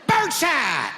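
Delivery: high shouted warning. Acted. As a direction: yell it as you fire. Firing shotgun, yelling.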